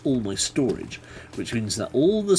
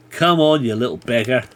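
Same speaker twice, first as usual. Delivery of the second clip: taunting call; 7 dB louder than usual. Real, not acted. Taunting an approaching mob.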